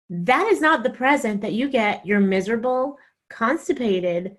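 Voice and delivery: mock-livid wife laying down the law. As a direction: scold him word by word, slowing down. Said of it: "So I'm livid".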